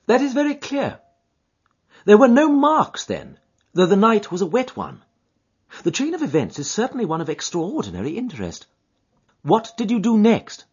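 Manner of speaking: a keen, composed sleuth probing; detective Holmes. A narrator's reading. Holmes questioning his client, keen and composed.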